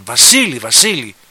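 loud shouted «Βασίλη» twice; calling out. Retold or imitated. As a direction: call a name across the street. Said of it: "Τον φωνάζουν".

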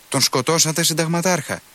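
shouting. A narrator's reading. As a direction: cry it out at the colonel in disbelief. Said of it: "φωνάζει ο προσφοράρης Παντελεήμων".

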